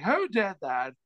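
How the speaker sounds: imitating an indignant comic, pitch jumping up on WHO; Norm Macdonald. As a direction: lightly impersonate a comic demanding the culprit. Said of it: "I'll stop impersonating him now".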